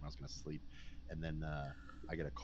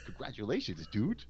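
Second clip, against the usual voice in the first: stoned congratulations; 5 semitones higher, 7 dB louder than usual. Retold or imitated. Stoned roommate congratulates him.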